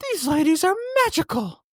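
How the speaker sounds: very high-pitched playful celebrity impression; Drew Barrymore. Podcast host quoting a celebrity about his guests, high-pitched impression. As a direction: pitch it way up, then swoop down at the end. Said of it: "That's my Drew impression".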